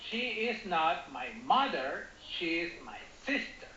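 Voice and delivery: emphasize mother, then sister, as new information; "mother" and "sister" picked out; stress on mother and sister. Shown as a demonstration. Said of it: "we emphasize Alexander, mother, and sister".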